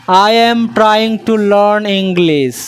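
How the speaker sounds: very slow, word by word for the class; slow dictation pace; slow model sentence. Shown as a demonstration. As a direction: spell it out slowly so students can repeat. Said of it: "তাহলে কি হলো?".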